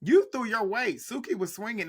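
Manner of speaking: high, loud, worked-up callout; riled-up rant with pitch up high; heated callout. Real, not acted. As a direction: tell Rolly off, voice climbing. Ranting at Rolly on screen.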